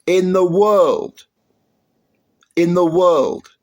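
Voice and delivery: slow, loud emphatic repeat. Real, not acted. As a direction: drive "in the world" home slowly. Hammering home the count.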